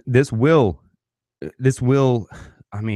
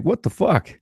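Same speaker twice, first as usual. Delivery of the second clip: incredulous outrage; 10 semitones higher than usual. Retold or imitated. Outraged inner reaction.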